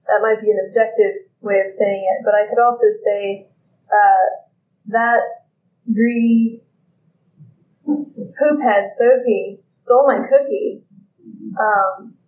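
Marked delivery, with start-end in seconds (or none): 4.9-10.8 slow, mildly indignant accusation; a touch of grudging anger, drawn out; angry story version. Shown as a demonstration. Teacher demos the angry story version of the cookie theft, slow and mildly indignant. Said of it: "I can already feel the anger more".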